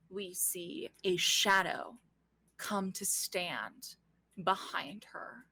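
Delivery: slow, suspenseful narration with long pauses; game master scene setting. A narrator's reading. Game master reveals a shadow behind her, slow suspense. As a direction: let each image land slowly.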